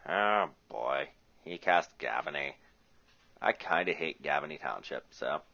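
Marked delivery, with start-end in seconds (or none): 0.1-1.1 Beavis voice. Retold or imitated. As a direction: do Beavis saying it. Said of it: "In my best Beavis voice".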